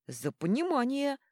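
proclaiming toast. Acted. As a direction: proclaim it to the table. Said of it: "провозгласил Йорли". (торжественно провозглашая тост)

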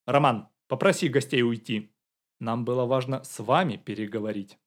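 usual speaking voice

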